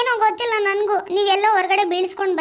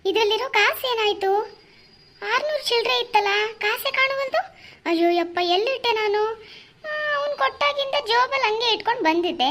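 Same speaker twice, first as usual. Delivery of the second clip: higher, anxious, the money is gone; worried searching; 3 semitones higher than usual. Acted. Husband discovering the missing money, anxious and higher. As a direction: fret aloud while patting pockets.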